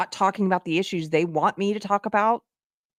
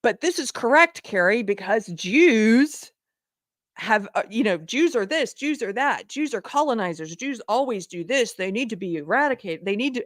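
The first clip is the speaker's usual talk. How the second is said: mock bigot. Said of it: "Jew haters coming in and saying".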